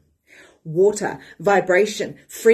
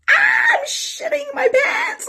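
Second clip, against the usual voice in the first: much higher, slow, strained half-cry of fake terror; mock panic; 4 dB louder, much slower than usual. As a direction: wail it like you're terrified. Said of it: "And she's like".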